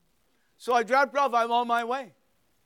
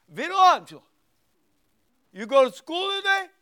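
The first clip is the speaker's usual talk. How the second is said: louder, higher, full-name scolding call; calling out, loaded; 9 semitones higher, 8 dB louder than usual. Retold or imitated. Grandpa confronts grandson who skipped school, loud pointed call. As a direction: let him know he's caught.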